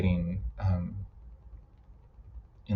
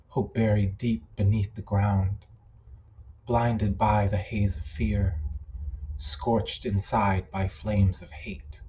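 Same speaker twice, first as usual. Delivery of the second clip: measured recital with pauses between lines; poem reading. Acted. Poet reading poems written for an old friend, measured poem recital. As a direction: recite it line by line, unhurried. Reads own poems aloud.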